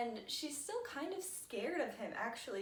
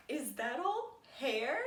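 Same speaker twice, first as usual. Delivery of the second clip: quoted through laughter. Retold or imitated. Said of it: "this boy says".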